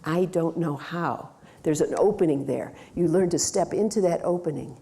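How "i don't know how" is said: I don't know how said slowly, marked out; slowed change talk. Shown as a demonstration. Coach points out the client's change talk, slowly. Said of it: "Change talk".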